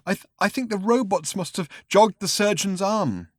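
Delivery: high, broken drugged man; frail, drugged voice; drugged witness. Acted. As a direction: stammer it out dazed and weepy. Drugged man's held voice.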